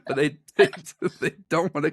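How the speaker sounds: high-pitched, laughing through the words. Real, not acted. Joking that British accents wanna be Australian, laughing. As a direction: crack up at your own joke. Cracking up at own joke.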